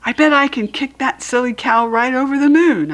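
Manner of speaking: put-on a cocky kid sure of her big kick; Junie B voice. Junie B boasting to herself before kicking the can. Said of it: "I said".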